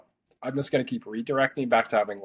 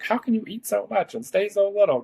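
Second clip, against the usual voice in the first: mock incredulous; 11 semitones higher than usual. People asking her, mock incredulous.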